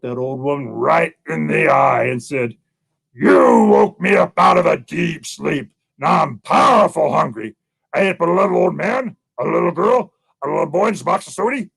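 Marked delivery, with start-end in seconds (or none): 3.1-11.7 lightly played bear, emphatic and unhurried; hungry bear. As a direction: draw out the words like a menacing bear. Hungry bear threatens old woman.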